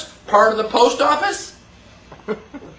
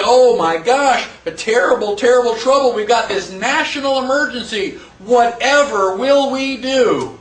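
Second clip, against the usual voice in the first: mock panic. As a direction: ham up the fake national panic. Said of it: "So now we say".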